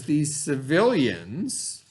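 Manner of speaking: civilians drawn out slowly with a rising tune; slow on a vocabulary word. Shown as a demonstration. Teacher reading to her class, slowing to flag a vocabulary word. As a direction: stretch out civilians so the class notices the new word. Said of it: "there's that word".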